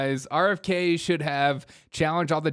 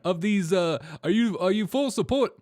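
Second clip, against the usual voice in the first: fast, higher hectoring question; mock Sanders; 6 semitones higher than usual. Host mimicking Sanders grilling RFK, fast and pitched up. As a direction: badger like an old senator. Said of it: "Sanders, again".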